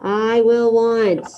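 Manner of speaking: very slow, deliberate prompt; slow dictation. Shown as a demonstration. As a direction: spell it out slowly for the class. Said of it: "Let's do one more together".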